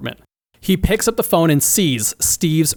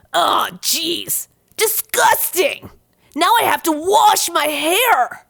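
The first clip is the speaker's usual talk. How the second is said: very high-pitched, drawn-out yell of disgust; 13 semitones higher than usual. Reading a story aloud, voicing a character whose hair got chewed: yelling in disgust. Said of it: "yells Riley".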